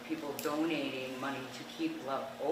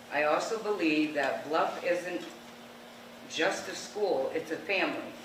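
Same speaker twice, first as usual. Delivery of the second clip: emotional reading; 2 semitones higher, 4 dB louder than usual. Real, not acted. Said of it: "sorry, I'm a little emotional".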